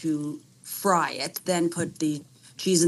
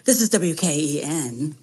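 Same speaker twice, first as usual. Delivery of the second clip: hint of a mock radio station announcer; late-night radio host; 3 semitones lower, 4 dB louder than usual. Caller jokingly announcing the host's station, late-night radio host. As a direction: play along lightly as a late-night DJ. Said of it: "you sound like a late night radio host".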